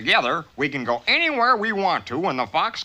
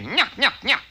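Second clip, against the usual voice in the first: taunting; 4 semitones higher than usual. Acted. Mink taunts the fox.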